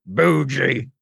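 slow rural hick drawl; folksy country accent, unhurried. Shown as a demonstration. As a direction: talk like a backwoods country hick. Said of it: "You don't talk like this if you're a highfalutin".

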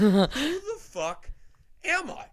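slow, loud, then squeaking high on am I; drawn-out astonished self-question; mock disbelief. Mocking his own delight after work. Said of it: "and I was like".

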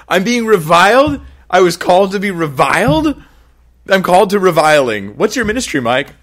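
high, loud, laughing incredulous protest; preacher mock-protests his calling to be reviled, laughing; laughing disbelief. Mock shock at the verse.

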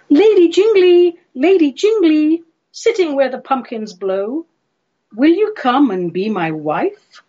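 high opening call, settling into a plea; theatrical suitor's entreaty; Yonghy Bonghy Bò proposing. Acted. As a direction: call to her, then gently propose. Bò proposes marriage in verse.

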